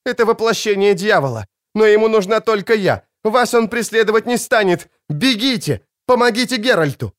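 put-on high, pressing young woman's plea; urgent girl voice. Ciri begs Cahir to flee and help Geralt, high and urgent. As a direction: push them away, high and urgent.

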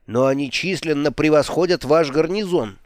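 exploding. Acted. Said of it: "взорвался Алекс".

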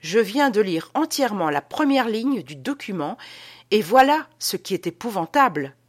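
plainte effarée, un peu montée; gémir devant une découverte épouvantable; gémissement. Acted. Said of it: "continua-t-il à gémir". (lamentation théâtrale)

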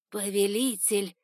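steward bowing, drawn out and nervous; nervous servant's greeting. A narrator's reading. Steward Var bowing to his master, nervous and drawn out. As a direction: greet the master with anxious deference. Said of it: "склонился в поклоне, заметно волнуясь".

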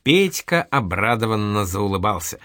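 usual speaking voice

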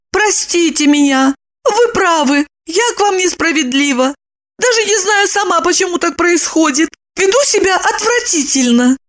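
high, contrite woman's voice; apologize, deflated. A narrator's reading. Lipochka apologizes to Roman. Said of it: "она сникла и попросила".

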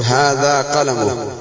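slow هذا قلم ending "qalamuh"; h-pronoun ending offered. Shown as a demonstration. Teacher quizzing the class, قلم drawn out with h ending. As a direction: say قلم with an added final -uh. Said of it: "أيهما الصواب؟".

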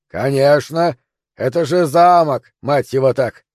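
slow, emphatic call; shouted answer. Acted. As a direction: shout down the obvious, indignant. Defender calls answer down. (возмущённый крик в ответ)

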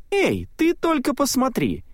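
высоко, с изумлением; вскрикни, показывая на врага; восклицание. A narrator's reading. Салли замечает Рэндалла. (Салли указывает на Рэндалла, изумлённым высоким возгласом)

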